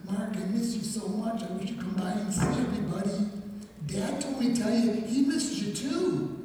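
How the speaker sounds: a hint of a sweet kid sister begging him home; little sister.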